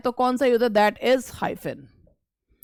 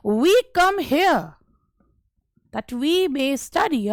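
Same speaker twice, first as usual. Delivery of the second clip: slow reading; 3 semitones higher, much slower than usual. Shown as a demonstration. Teacher reads example sentence slowly.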